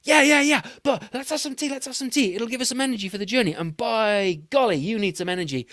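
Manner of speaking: a jolly English host offering tea; posh English fox voice; English accent. Acted. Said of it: "He, he came from England".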